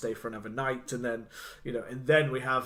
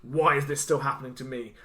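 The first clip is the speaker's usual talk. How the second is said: slow imitated lament. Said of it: "much more of a slow kind of".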